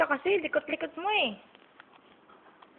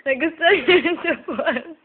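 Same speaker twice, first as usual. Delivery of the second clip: louder, higher amused exclaim; 5 semitones higher, 9 dB louder than usual. Real, not acted. Amused at baby tasting snot. (natutuwang bulalas)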